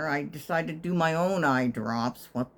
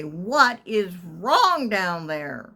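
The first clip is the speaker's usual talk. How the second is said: slow, raised call down the hall; 3 dB louder, much slower than usual. Retold or imitated. Calling from her door to the noisy women, raised. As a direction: call it out slowly. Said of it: "and I say".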